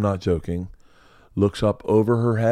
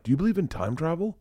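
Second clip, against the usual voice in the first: put-on sleepy child question; 8 semitones higher, 6 dB quieter than usual. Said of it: "wake me up in the middle of the night and go".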